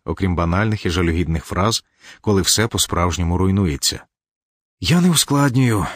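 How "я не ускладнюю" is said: sharp, higher insistent no, stress on не; firm denial. A narrator's reading. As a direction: snap back, leaning on не. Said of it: "Катька прикусила губу і взяла коротку паузу".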